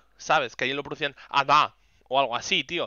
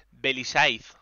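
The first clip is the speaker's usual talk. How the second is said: staff calling the name; 4 dB louder, much slower than usual. Retold or imitated. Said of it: "Y dicen".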